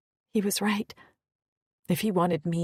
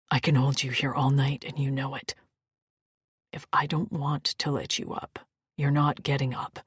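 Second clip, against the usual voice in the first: low male voice; 6 semitones lower than usual. Acted. Maddock's low voice.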